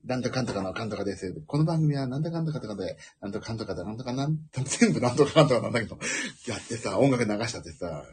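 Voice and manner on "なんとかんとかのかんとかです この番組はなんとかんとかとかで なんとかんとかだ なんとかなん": mock radio host. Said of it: "ちゃんと番組みたいにやってるんですよ".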